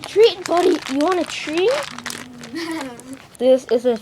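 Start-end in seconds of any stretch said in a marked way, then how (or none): 0.1-1.7 high, sing-song treat offer; talking to a pet. Acted. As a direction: coax it like a puppy.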